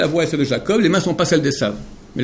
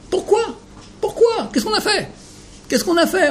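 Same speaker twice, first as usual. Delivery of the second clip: much higher, softer lamenting why; anguished cry; 13 semitones higher, 4 dB quieter than usual. Acted. Rabbi voicing the people's lament, high anguished why.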